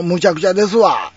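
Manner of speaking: Kansai man's emphatic sentence-final wa; Kansai dialect. Shown as a demonstration. Showing viewers how Kansai dialect tacks on wa, Kansai accent. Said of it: "関西弁はね".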